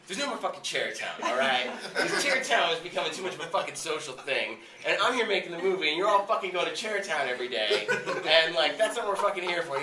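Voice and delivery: loud, laughing mock rant at the crew; imitating an exasperated yell. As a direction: bellow it like a fed-up director, half laughing. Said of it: "And he's like".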